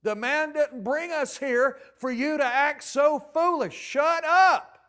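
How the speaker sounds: loud, high, forceful telling-off; stern rebuke. Retold or imitated. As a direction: rebuke hard, leaning on "Shut up". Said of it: "get in her face and say".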